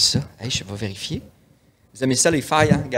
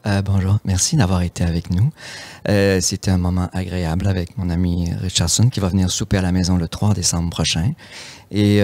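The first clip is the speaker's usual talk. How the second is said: sensual voice; 4 semitones lower than usual. Pretend. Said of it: "Vas-y, plus lentement".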